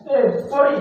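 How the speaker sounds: wailing, high and loud through tears; loud crying. Acted. Husband wailing to wife over lost girlfriend, loud crying. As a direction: bawl it out like a heartbroken man. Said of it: "ஏன் தனியா அழுதுகிட்டு இருக்க?".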